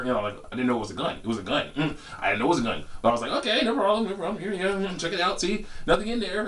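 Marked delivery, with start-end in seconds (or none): 3.3-6.5 compliant. Retold or imitated. Retells complying with the robber.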